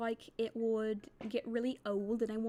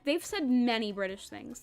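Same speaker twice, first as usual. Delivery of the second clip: British accent; 6 dB louder, slower than usual. Shown as a demonstration. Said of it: "reading this whole thing in a British accent".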